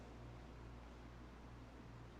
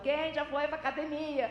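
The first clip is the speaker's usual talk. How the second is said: nagging motivator; 3 dB louder than usual. Retold or imitated. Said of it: "Todo domingo ela tá falando".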